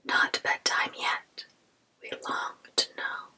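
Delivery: put-on storytelling whisper of an old poem; whispered poem reading. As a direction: recite the poem in a lilting whisper.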